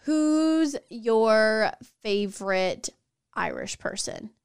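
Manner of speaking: slow teasing question trailing off to a whisper; mock quizzing tone, dropping away at the end; imitating partner. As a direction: drag it out, then drop to a breathy whisper. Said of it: "you'll be like".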